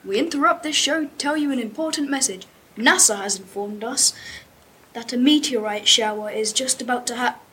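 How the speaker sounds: brisk mock bulletin; TV news report. A narrator's reading. Pupil voices TV interrupting the show, mild newsreader. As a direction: read it like an urgent announcement, lightly. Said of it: "the T V reported".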